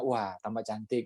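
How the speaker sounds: quiet slow sweet compliment; soft mock flattery. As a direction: gently flatter the wife, slowly. Flattering wife's makeup.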